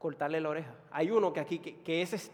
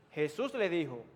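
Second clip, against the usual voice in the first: ordinary talk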